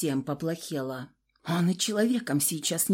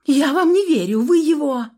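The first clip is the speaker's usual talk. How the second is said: shouted protest; 8 semitones higher, 8 dB louder than usual. A narrator's reading. Heroine protests.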